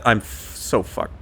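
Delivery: unvoiced muttered aside; under his breath. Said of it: "and then under his breath".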